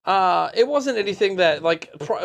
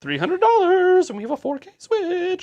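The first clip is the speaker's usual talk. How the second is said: very high, squeaky chipmunk voice; 14 semitones higher, 4 dB louder than usual. Pretend. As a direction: pitch way up like a chipmunk. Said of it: "go back to chipmunk voice".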